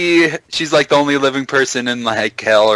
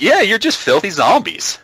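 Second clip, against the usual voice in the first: mock sneering villain; 8 semitones higher than usual. Voicing villain degrading zombies.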